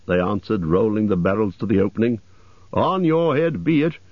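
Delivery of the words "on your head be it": raised-pitch elf warning; mildly acted high retort. A narrator's reading. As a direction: hand over the blame in a high voice. Elves warn the butler.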